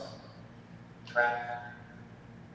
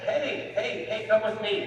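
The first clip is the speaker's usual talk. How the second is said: much higher, bright coaxing call; mock eager friend; 10 semitones higher, 5 dB louder, slower than usual. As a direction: chirp it like an overeager friend dragging someone along. Mock friend luring someone to church.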